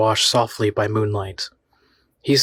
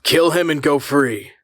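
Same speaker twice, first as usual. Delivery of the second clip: slow, loud, menacing command; 4 semitones higher, 3 dB louder, slower than usual. A narrator's reading. The voice tempting the girl, slow and menacing. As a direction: drag it out like a sinister tempter. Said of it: "said the voice".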